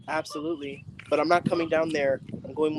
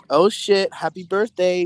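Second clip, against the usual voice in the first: surprised birthday greeting; 3 semitones higher, 5 dB louder, slower than usual. Real, not acted. Reacting to a birthday donation.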